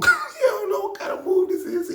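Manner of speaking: real laughter breaking through, high and loud; laughing. Real, not acted. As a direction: laugh while describing the hold. Laughs at the chicken wing.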